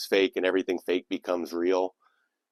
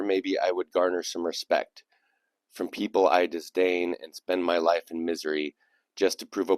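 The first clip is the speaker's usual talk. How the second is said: poem reading. Acted. Host resuming a listener's poem after laughing, measured recital. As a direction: start emphatically, then recite evenly to the close. Reads a submitted poem aloud.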